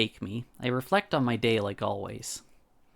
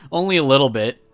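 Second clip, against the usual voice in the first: laughing; 9 dB louder than usual. Real, not acted. Laughing while teasing friend.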